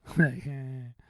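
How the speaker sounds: short, nervous re-enacted laugh. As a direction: imitate your own nervous, disbelieving laugh. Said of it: "I do that nervous laugh".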